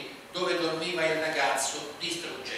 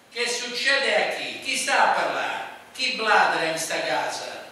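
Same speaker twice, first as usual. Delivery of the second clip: loud, higher bellow as he barges in; yelling; 5 semitones higher, 7 dB louder than usual. A narrator's reading. Stepfather slamming the door, yelling at everyone. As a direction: storm in shouting at the whole house. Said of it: "urlò Romuletto".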